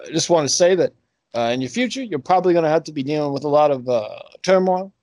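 put-on phone psychic with a Southern accent. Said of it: "why I have a Southern accent".

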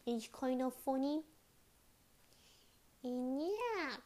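put-on lisping baby talk with a speech impediment; Chibi Tammy voice. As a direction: play a cute little chibi baby who can't say her sounds. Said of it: "I'm gonna talk like this".

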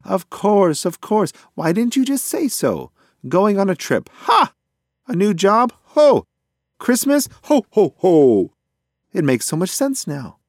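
very high, loud, enthusiastic bird; excitable pigeon. A narrator's reading. Pigeon finally understands it is a birthday, excitable and loud. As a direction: crow with sudden understanding, big staccato laughs.

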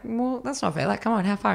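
high-pitched indignant pleading; retold protest, pitched right up; mock protest. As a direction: imitate a whiny complaint to a boyfriend. Retold protest to her boyfriend.

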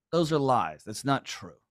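usual speaking voice

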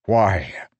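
loud, cutting question; sharp interruption. A narrator's reading. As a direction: cut him off hard. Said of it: "Dalinar interrupted".

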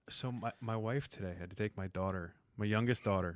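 hushed, quiet voice; whispering. Real, not acted. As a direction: speak low like a secret. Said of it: "Why are you whispering?".

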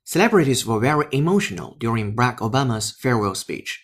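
crisp English headline read; news read. Acted. (英语新闻播报)

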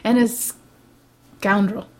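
slow, hammed-up indignation; mock accusation. Accusing a co-host for fun, slow mock indignation. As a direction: accuse with drawn-out theatrical relish.

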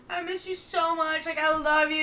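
a hint of sobbing on the phone; crying to boyfriend. The speaker mimicking herself crying to her boyfriend, lightly teary. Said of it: "I'm like".

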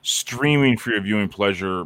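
booming circus announcer voice; ringmaster. Pretend. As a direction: roll it out like a big top ringmaster. Circus-style show opening.

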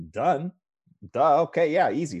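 high, loud quick yeses; breezy agreement. Retold or imitated. Guest retells agreeing to take her photos, breezy. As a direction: toss off each word like it's nothing.

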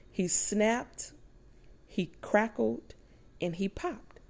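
SNAPPED, CRACKLED, POPPED set apart by pauses; expressive diction. Shown as a demonstration. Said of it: "a little bit of tone and diction".

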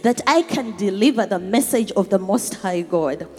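excited praise. Real, not acted. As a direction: lift the voice in thankful excitement. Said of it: "I am so excited".

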